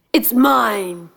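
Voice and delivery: mildly roared lion's claim. Acted. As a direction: claim it like a storybook lion. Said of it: "roared the lion".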